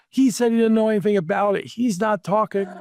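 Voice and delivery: furious reporter. Retold or imitated. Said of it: "He's furious".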